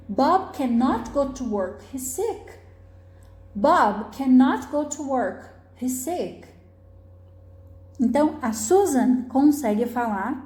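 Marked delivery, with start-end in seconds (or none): 0.1-6.5 slow model sentence leaning on "cannot"; negative intonation. Shown as a demonstration. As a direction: read it slowly for learners, weight on "cannot". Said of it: "é sempre a parte que tem a negação".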